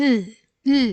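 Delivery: "ഇൽ" as a bare held l; final L sound. Shown as a demonstration. Teacher showing how the letter la sounds, as bare "ഇൽ". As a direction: say "ഇൽ" without an a vowel. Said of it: "എന്ന്".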